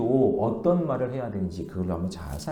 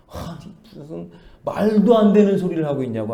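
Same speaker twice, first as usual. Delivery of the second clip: lightly voiced Gyeongsang husband, a touch louder; dismissive husband; 3 semitones higher, 6 dB louder than usual. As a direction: brush her off with scorn, mildly acted. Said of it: "경상도 남자 남편이 하는 말이". (무시하듯 살짝 큰 소리로 핀잔주는 남편)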